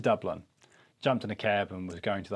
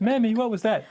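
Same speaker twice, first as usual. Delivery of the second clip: put-on higher, louder little kid; child voice; 11 semitones higher, 4 dB louder than usual. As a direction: ask your mammy like a small child. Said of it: "child voice asking mother".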